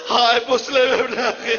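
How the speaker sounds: mother's cry. Retold or imitated. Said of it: "ماں نے چیخ مار کر کہا".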